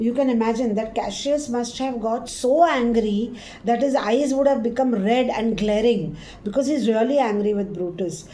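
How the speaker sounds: ordinary talk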